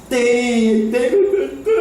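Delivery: put-on insistent child whine. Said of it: "Aí diz".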